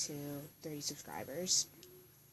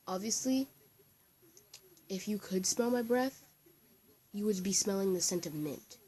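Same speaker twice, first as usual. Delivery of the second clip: higher, spaced-out retold retort; sassy comeback; 4 semitones higher, 3 dB louder than usual. Girl answering a classmate's insult about her breath, sassy retort. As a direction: draw out the comeback with pointed emphasis.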